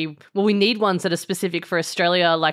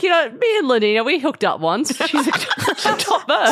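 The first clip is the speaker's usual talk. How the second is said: high Australian lad, laughing; hammed-up Australian accent; Aussie bloke bragging; 8 semitones higher than usual. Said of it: "really thick Australian accents".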